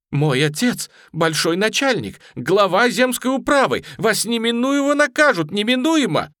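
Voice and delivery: high, loud haughty threat; angry threat. A narrator's reading. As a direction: threaten them with punishment, rising. Lady threatens with her father. (высоко и громко грозит)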